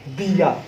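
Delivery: दिया said short, no stress on द; unstressed demo. Shown as a demonstration. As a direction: model दिया lightly. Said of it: "देखिए".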